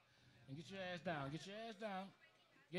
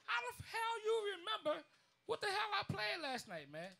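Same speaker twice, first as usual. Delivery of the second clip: retold amazement; 9 semitones higher than usual. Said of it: "I'm like".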